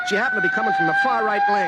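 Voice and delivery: very high, fast comic aside; squeaky rushed aside. Acted. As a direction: toss it off in a squeak.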